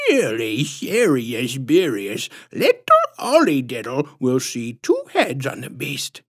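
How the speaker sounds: put-on ominous baby-talk in a squishy, swooping lisp; patronizing lisp. A narrator's reading. Visitor warning parents of their last chance, patronizing lisp. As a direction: warn them slowly, lisping with relish. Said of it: "patronizing, squishy-throated lisp".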